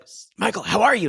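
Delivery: mock a concerned greeting; a touch of fretful concern; imitating worried concern. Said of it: "She's really worried about him".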